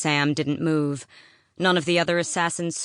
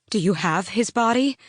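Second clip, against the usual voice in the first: sharp, louder demand; 6 semitones higher, 3 dB louder than usual. A narrator's reading. Selena demands the body from Arobin, sharp and raised. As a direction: insist on seeing the body. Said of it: "she demanded".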